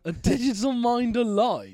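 slow, loud, eerie movie-trailer voice; ominous voice. Pretend. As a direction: make it sound sinister. Repeating line in ominous voice.

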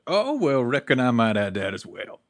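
light country cowboy twang; lightly put-on Southern accent. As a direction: agree like a folksy cowboy. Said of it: "drunk cowboy".

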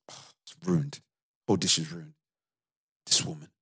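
low, soft, mopey mumble; mumbling like a sulky kid. Retold or imitated. Mimicking a sulking coworker at lunch.

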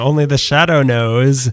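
put-on slow ominous old radio voice; lightly voiced mysterious radio narrator; the Shadow. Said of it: "Now talk like the Shadow".

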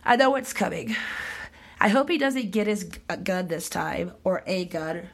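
measured personal story narration; memoir reading. A narrator's reading. Author reading a childhood memoir to listeners, measured narration. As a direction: read your own painful childhood account aloud.

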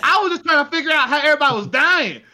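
high, fast incredulous rant; incredulous outburst. Real, not acted. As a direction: rant about how absurd it got. Outraged recap of absurd movie.

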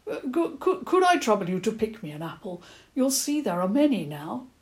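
a fussy old badger asking politely. Old badger asking the children for an apple, stammering.

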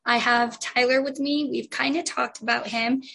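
hoarse, strained voice; lost voice. Real, not acted. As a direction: talk through a lost, hoarse voice. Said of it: "I have lost my voice".

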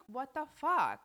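loud, exasperated what the fuck; outraged outburst. Real, not acted. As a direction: blurt it out in real disbelief. Outraged rant about scamming friend.

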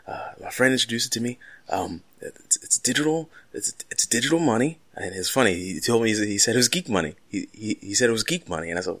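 lightly voiced, out-of-breath halting stammer; a hint of timid yet aggressive, breaking off and repeating; Forrest Whitaker. Improvising a celebrity Bitcoin endorsement, mildly breathless and hesitant. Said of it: "always sounds like he's out of breath".

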